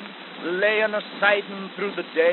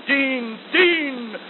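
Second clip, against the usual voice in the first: rising call; 4 semitones higher than usual. Shown as a demonstration. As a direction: build the call up. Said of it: "refrain repeated, rising".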